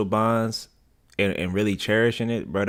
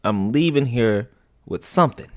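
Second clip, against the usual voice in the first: Denzel voice; 7 dB louder than usual. Retold or imitated. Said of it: "my nigga said".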